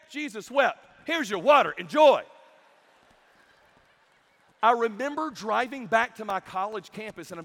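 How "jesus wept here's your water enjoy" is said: loud, punched-out retold teacher; higher, emphatic mock-teacher proclamation; mock exclaiming. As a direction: announce it loudly like a brisk reward. Retold teacher handing over the reward.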